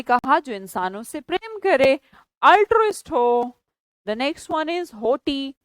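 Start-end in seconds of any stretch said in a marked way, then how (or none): 4.1-5.5 slow announcement. Shown as a demonstration. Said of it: "teacher announcing vocabulary word".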